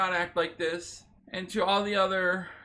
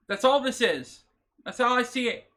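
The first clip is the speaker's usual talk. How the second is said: emotional outburst; 3 semitones higher, 4 dB louder than usual. Real, not acted. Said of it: "Sorry, I'm emotional right now".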